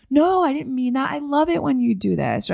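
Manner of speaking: high-pitched, eager placating voice; placating fawner. Retold or imitated. Someone panicking that a person is upset, high, placating. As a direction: pitch it up and rush to smooth things over. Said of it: "we're just like".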